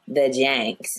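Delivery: lazy California vowel, Jinx said as Janks; mock California accent. Teasing co-host's California accent, a mock imitation. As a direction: tease the friend's California accent. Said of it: "That was my best California accent".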